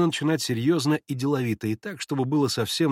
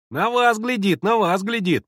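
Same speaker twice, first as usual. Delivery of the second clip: put-on high, loud childish echo; boys chiming in; 9 semitones higher, 6 dB louder than usual. A narrator's reading. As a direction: pick it up like excited boys. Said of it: "подхватили мальчики". (мальчишки подхватывают хором)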